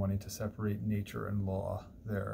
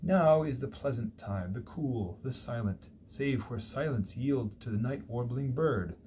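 seductive dream voice. Retold or imitated. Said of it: "this voice, right, in her dream, says".

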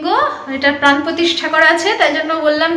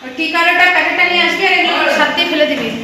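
calling out; 5 semitones higher than usual. Real, not acted. Mother calls out instructions to son.

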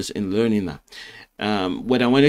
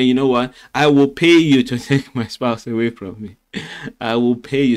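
laughing. Acted. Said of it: "I'm laughing".

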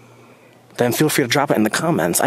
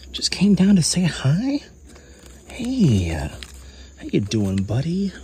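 talking to a critter; 4 semitones higher than usual. Real, not acted. Greeting an animal in the jungle.

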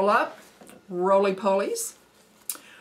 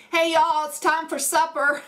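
high, raised Southern holler; yelling for supper; 8 semitones higher, 4 dB louder than usual. Shown as a demonstration. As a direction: call the family to supper, pitched up and loud. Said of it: "Midwest Southern accent is when I'm yelling for supper".

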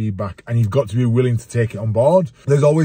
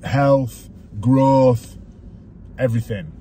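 coach mode. Real, not acted. Dad lecturing his son about healthy food like a coach. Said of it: "You went into coach mode then".

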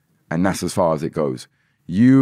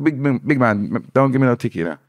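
pleading with garage man; 5 semitones higher than usual. Retold or imitated.

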